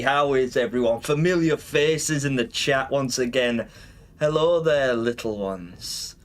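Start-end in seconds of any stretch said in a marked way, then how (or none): 4.2-6.2 low, slow menacing greeting; dark lord. Acted. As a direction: drop into a sinister purr. Villain greeting to viewers.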